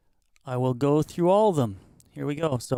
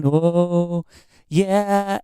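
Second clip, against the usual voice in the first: ring modulation; 4 dB louder than usual. Shown as a demonstration. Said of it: "there's a ring modulation".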